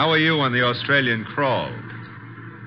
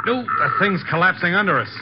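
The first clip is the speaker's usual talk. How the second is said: high, loud alarm as the bridge gives way; alarmed cry; 8 semitones higher, 4 dB louder than usual. Acted. Driver crying out as the bridge collapses, loud and high. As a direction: yell it as the ground drops out.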